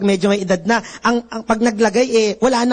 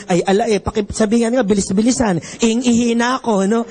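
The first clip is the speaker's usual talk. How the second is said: Batangueño actor; 3 semitones lower than usual. Retold or imitated. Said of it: "Sabi niya".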